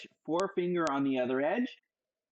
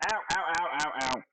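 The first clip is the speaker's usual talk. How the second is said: реакция на ожог; faster than usual. Real, not acted. Hot bacon on the hand.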